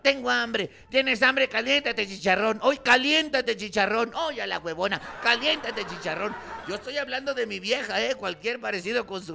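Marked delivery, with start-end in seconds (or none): 0.9-6.4 louder sneering wife's retort; mocking wife. Wife mocking her hungry husband, loud and scornful. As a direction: scoff at him loudly.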